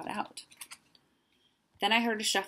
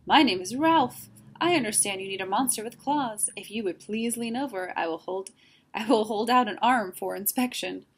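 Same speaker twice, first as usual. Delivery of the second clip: silky monster voice, pitched up and projected; high silky voice; 3 semitones higher, 7 dB louder than usual. A narrator's reading. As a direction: introduce yourself in a high, silky voice. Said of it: "he said in a high, silky voice".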